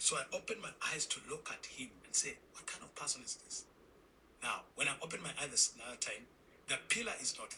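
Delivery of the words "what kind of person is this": whispered wonder. Retold or imitated. Wondering aloud at the man.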